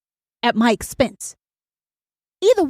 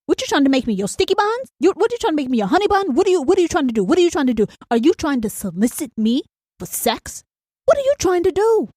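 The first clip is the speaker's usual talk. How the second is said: mock outraged questioning, jumping high; incredulous inner retort; 4 semitones higher, faster than usual. The host answers Mister Fresh Sausage with incredulous mock outrage. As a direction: grill him in your head. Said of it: "I'm thinking".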